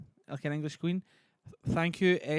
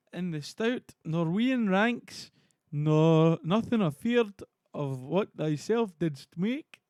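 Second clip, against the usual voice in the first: raised, slow, sonorous stage reading; Ross, grand herald; 6 semitones higher, 6 dB louder, slower than usual. Acted. Streamer resumes reading Ross's speech to Macbeth, grandly declaimed. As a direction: declaim it with drawn-out emphasis.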